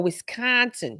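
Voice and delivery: slow Wisconsin accent demo. Shown as a demonstration. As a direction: Wisconsin vowels, mouth pulled down a little. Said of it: "you gotta put it down a little".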